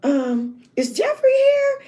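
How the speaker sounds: high, slow nervous question; hesitant asking. Retold or imitated. Narrator asking the girl for Jeffrey, high and hesitant. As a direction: ask meekly, unsure. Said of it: "And I was like".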